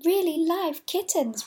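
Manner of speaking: high, loud, slow confirming fall; emphatic answer. A narrator's reading. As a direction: confirm it proudly, falling firmly. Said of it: "replied Fido".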